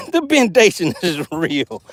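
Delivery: breaking into laughs mid-phrase; laughing. Real, not acted. Angler repeating catchphrase to viewers, laughing.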